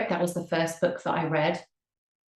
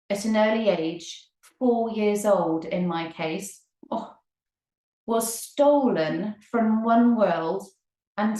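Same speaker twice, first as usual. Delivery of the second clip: reading aloud; 2 semitones higher than usual. Acted. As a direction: read the passage out to listeners, deliberately. Reads book aloud.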